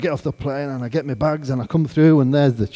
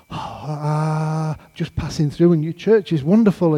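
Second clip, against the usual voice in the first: hesitant start, then higher gushing; awkward small talk; 4 semitones higher than usual. Retold or imitated. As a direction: imitate flustered polite small talk. Awkward small talk before a famous pastor.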